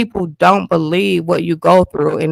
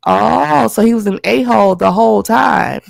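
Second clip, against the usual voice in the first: surprised outburst; 4 semitones higher than usual. Real, not acted. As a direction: burst out as it finally clicks. Learning the doctor got fired.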